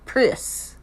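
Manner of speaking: "Pris." with a clipped short i, nearly whispered; mock the Kiwi vowel in "Pris."; New Zealand press. Vlogger mimicking the detective's slip, "Pris." with an i vowel. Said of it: "tell herself not to say".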